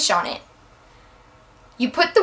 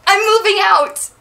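excited announcement; 7 semitones higher than usual. Real, not acted. Announcing big news.

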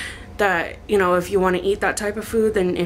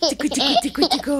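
high playful tickling singsong; giggly tickle attack; 5 semitones higher, faster than usual. Real, not acted. Tickling toddler.

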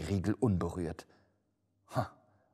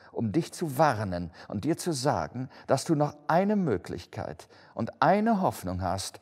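raised, insistent declamation; solemn warning ghost; 6 semitones higher, 5 dB louder than usual. Acted. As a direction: press the one remaining hope on the listener. (eindringlich mahnende Geisterstimme)

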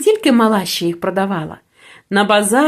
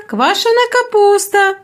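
higher market cry, stress on квашена; repeated hawker cry; 7 semitones higher than usual. A narrator's reading. Sauerkraut seller repeats the cry to passing shoppers, higher. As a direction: call it out again, leaning on квашена. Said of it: "гукали тут".

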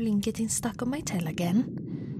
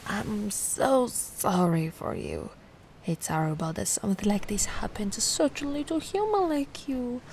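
tender pity. Acted. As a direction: soften into a whisper of pity. Pity for castaway.

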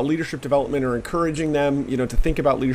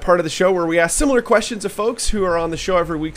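louder, fast announcer launch; energetic host; 4 semitones higher, 7 dB louder, faster than usual. Real, not acted. Host announcing the lightning round with energy. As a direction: kick off the segment with punch.

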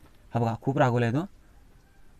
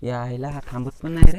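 frustrated outburst; 10 dB louder than usual. Real, not acted. Scorpion won't stay still.

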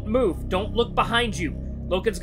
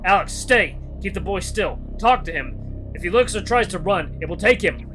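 louder, punchy commands under pressure; urgent orders; 5 semitones higher, 7 dB louder than usual. Acted. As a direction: shout instructions to a partner in danger. Companion shouts orders in story.

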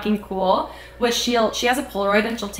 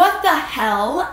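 slow, higher-pitched mock bewilderment; re-enacted astonishment; 6 semitones higher, 3 dB louder, much slower than usual. Fans left stunned after the singer runs off, drawn-out mock disbelief. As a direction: stretch it out, dumbfounded.

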